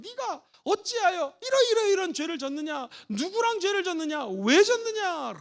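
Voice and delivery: a pastor acting out a scolding interrogation; interrogating. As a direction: press her with each question. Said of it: "라고 다그치지 않습니다".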